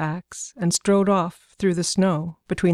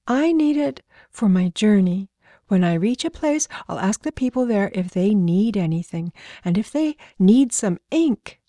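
lightly voiced child proudly laying out a plan; eager little girl; 3 semitones higher than usual. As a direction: explain it keenly, with bouncing emphasis. Little girl explains her grand plan.

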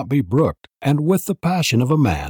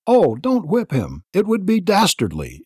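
begging, much higher; imploring; 9 semitones higher than usual. A narrator's reading. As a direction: plead for the boy's back. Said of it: "implored Jane".

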